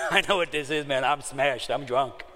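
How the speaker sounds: laughing through the words, loud and high; laughing realization. Retold or imitated. Drunk man laughing at finding out he's smashed. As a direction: laugh as it dawns on you that you're drunk.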